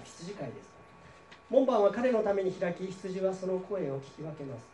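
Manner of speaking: measured reading of Bible verses to a congregation; formal scripture reading voice. Acted. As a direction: read the passage steadily, like a pastor from the pulpit. Pastor reads John 10 aloud.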